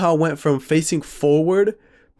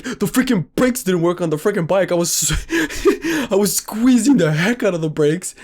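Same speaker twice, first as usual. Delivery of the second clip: higher, breaking into laughter; laughing retold protest; 5 semitones higher than usual. Friend complaining about the brakes, laughing protest. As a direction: protest indignantly and crack up midway.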